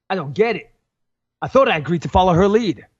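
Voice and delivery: British speaker's attempt at American; American accent. Shown as a demonstration. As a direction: read the line with an American accent. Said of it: "That sounded American".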